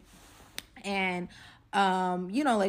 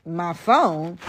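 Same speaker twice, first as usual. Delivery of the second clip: shocked; 11 dB louder than usual. Retold or imitated. Shocked at demand.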